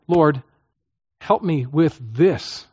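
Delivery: slow, settled, sincere request; calm, surrendered petition; specific sincere prayer. Shown as a demonstration. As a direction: hand it over slowly and deliberately. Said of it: "it's the moment at which I say".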